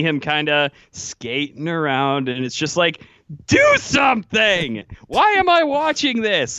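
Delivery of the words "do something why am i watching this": imitating a fed-up fan's outburst; frustrated fan yell. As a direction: yell at the player on TV in exasperation. Acted yelling at skating player.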